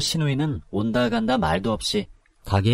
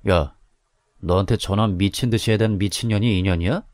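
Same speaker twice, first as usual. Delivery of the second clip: a bit lower, casual thug voice; lightly voiced thug; 3 semitones lower than usual. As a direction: sneer like a street thug. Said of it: "깡패같이 생긴 남자가". (건달 말투)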